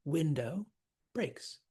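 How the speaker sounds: "Window" and "breaks" each set apart; stressed key words. Shown as a demonstration. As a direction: give "Window" and "breaks" their own weight. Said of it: "All of those important words are stressed".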